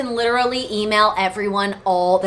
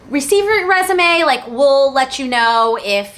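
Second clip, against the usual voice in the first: higher, louder quoted email voice; company reply; 3 semitones higher, 4 dB louder than usual. Retold or imitated. Stylist quoting the employer's reply, higher voice. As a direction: read out an official reply, lifted.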